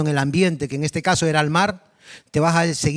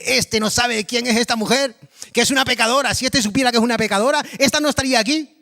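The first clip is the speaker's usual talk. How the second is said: higher, scornful whisper-free sneer at the sinner; mocking Pharisee; 5 semitones higher than usual. Pharisees sneer to Jesus about the sinful woman, higher and scornful. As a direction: play the smug judge, pitched up.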